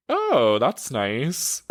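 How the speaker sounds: a high, strained "Oh" then a lame "that's nice"; awkward politeness. Retold or imitated. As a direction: fake a polite reply while squirming. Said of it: "very awkwardly was like".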